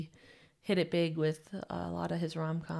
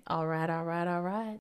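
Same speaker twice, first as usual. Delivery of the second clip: a hint of a celebrity catchphrase; Matthew McConaughey. Host tosses in the actor's catchphrase, lightly imitating him. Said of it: "read it in his voice".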